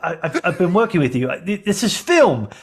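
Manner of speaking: fed-up Australian film director; exasperated Aussie crew boss; Australian accent. Acted. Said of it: "I'm an Australian here".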